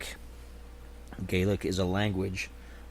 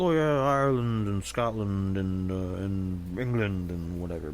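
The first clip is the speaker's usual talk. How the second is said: dismissive listing. Retold or imitated. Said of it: "People are always like".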